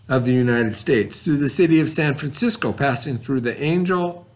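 steady, even classroom read; reading aloud from textbook. Acted. Teacher reading the textbook passage aloud, steady classroom reading. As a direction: read the passage out clearly for students.

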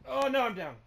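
high loud cry of defeat; dismayed yell. Real, not acted. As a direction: wail as you go down. Downed in game.

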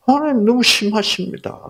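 high-pitched plaintive protest; acted complaint. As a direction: complain to God as the aggrieved Cain. 하나님께 원망하는 가인을 연기. (높은 소리로 하소연하는 원망)

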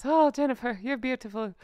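swooning compliment in a mock Irish accent; Jamie Dornan. Playing the celebrity crush complimenting the host, mock Irish accent. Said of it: "I love my Irish geese".

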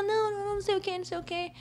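high-pitched imitation of placating protests; protesting assistant. Assistant brushing off the model's complaint, high mock protest. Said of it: "a assistente dela".

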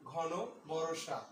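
slow, drawn-out recital of the verse; poem recitation. Shown as a demonstration. Teacher reciting the poem line slowly to students. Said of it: "কবিতাটা এভাবে হতো".

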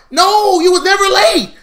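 high, very loud outburst; shouted contradiction. Acted. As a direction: cut the excuse off with a yell. Shouting down the imagined excuse.

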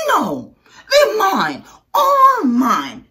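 high, loud possessive scream; the grouchy ladybug screams at the friendly one. Acted. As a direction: yell it out like a greedy bug. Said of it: "screamed the grouchy ladybug".

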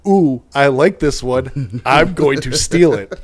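slow, sweet, mock-innocent; prim admin voice. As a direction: drawl it like a prim lady. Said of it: "Madeline was her name, said".

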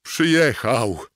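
high, loud, joyful cry; cheerful shout. Acted. Mort calling out happily that Shooter arrived. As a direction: call it out gleefully. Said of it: "zawołał wesoło".

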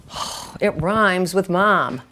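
put-on slow, exasperated kid's explanation; eye-rolling exasperation. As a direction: sigh it out slowly, rolling your eyes. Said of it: "rolling my eyes and going".

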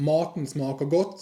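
"Maten smaker godt" said very slowly, word by word; Norwegian demo. Shown as a demonstration. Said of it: "ดังเช่น". (ออกเสียง "Maten smaker godt" ช้ามากทีละคำ)

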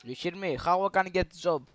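loud broken English in a put-on Arabic accent; troll a stranger as a loud Arab gamer; fake Arabic accent. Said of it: "I'm Arabic". (ψεύτικη αραβική προφορά, δυνατά)

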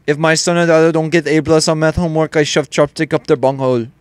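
hammed-up mock Asian English; mock Asian accent. Gamer joking that he can't see, mock Asian accent. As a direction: put on a crude Asian accent. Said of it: "I think I'm Asian".

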